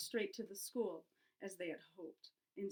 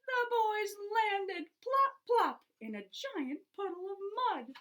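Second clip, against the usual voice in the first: high, loud, slow plop plop; storyteller hamming up the fall; dramatic splash; 10 semitones higher, 6 dB louder, slower than usual. A narrator's reading. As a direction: land it with a big splash.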